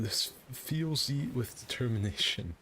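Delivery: high, slow katana character voice. Retold or imitated. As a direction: drawl it out in the character's voice. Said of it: "This is the voice".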